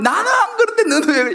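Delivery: very high, indignant mock complaint; acted anger. Preacher imitating a quick-tempered person blaming others, high and indignant. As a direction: play the self-righteous hothead blaming someone. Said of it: "화를 잘 내신다고".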